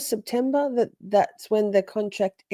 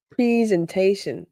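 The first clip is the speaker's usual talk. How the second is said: put-on "Presentation" copying an American witness's accent; imitated American accent. Host fondly echoing the witness, "Presentation" in an American accent. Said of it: "I like the way L S U says everything".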